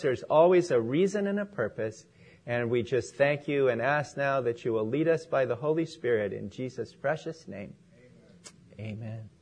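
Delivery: public prayer. Real, not acted. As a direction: pray aloud for the congregation, easing down to a hushed amen. Leads the opening prayer.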